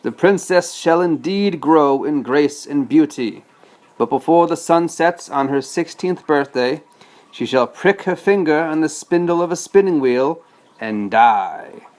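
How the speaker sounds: a hint of a menacing villain; lightly voiced wicked fairy cursing; dad reading the villain's curse to his son, mildly menacing; evil fairy's curse. Maleficent's curse read aloud.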